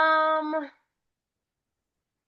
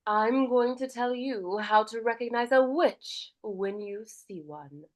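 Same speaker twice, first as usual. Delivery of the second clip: warmer, nurturing grandmother; 4 semitones higher than usual. Shown as a demonstration. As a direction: speak like a caring grandmother sharing a warning. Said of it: "she sounds warmer".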